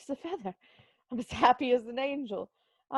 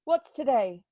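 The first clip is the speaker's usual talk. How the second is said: put-on loud, raised call to a boy in the street; 5 semitones higher, 4 dB louder than usual. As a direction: shout down to the boy. Calling to a boy below.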